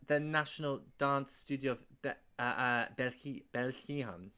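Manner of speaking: Belgium said as "Belxihan" with a throaty ch; "Belgium" with a guttural kh sound in the middle; corrected pronunciation. Shown as a demonstration. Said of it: "I think it's pronounced".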